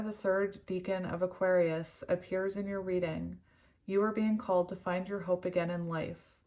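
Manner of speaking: even, measured reading voice; composed narration from a book; read-aloud storytelling. Real, not acted. Reads card meaning aloud.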